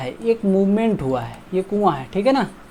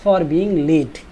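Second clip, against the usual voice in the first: slow, deliberate reading; slow model sentence; much slower than usual. Shown as a demonstration. Teacher reading the model sentence slowly. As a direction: read it out word by word. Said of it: "late या देरी होने की वजह से".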